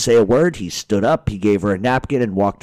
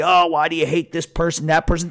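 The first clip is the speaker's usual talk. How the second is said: higher-pitched mock questioning; mimicked complainers; 5 semitones higher than usual. Ranter parroting people who keep questioning him, mocking. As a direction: imitate their objection, irritated.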